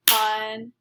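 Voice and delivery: Un-a-py split into three clapped beats; clapped syllables. Shown as a demonstration. Teacher clapping Un-a-py syllable by syllable for the class. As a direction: clap out Un-a-py beat by beat. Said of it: "clap out how many syllables".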